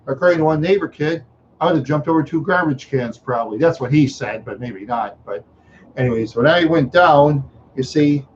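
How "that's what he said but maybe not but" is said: ordinary delivery, nothing marked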